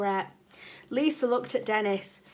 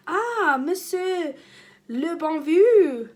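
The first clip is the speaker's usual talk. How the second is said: high, delighted gasp of a welcome, slowing on the name; joyful teacher greeting; 6 semitones higher, 8 dB louder, slower than usual. Acted. Teacher greets Dennis with high delighted joy. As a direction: gush over the new French boy.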